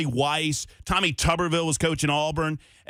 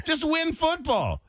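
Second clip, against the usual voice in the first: mock gruff coach; 12 semitones higher, slower than usual.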